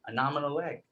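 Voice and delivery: "an arm and a leg" with Rhode Island R dropped; Rhode Island accent. Shown as a demonstration. Telling class it won't cost much, Rhode Island accent. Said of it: "the Rhode Island accent".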